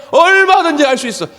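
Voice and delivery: high, bright, eager cry, the first word punched; 얼마든지 sung out high and loud; eager exclamation. Retold or imitated. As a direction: burst out that you can do anything at all. Pastor voicing eager willingness.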